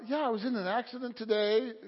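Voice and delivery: casual, understated report; really calm. Retold or imitated. Husband phones wife about his accident, really calm. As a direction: break bad news as if it were nothing. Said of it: "I just said it really calmly".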